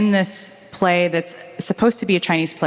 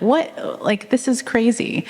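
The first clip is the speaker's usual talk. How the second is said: incredulous; 6 semitones higher, slower than usual. Retold or imitated. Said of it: "you can imagine her just thinking like".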